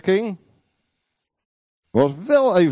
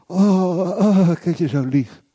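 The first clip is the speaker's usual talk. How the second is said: mock sweetness; slower than usual. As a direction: coo it in mock adoration. Mocks a sweet idea of the Spirit.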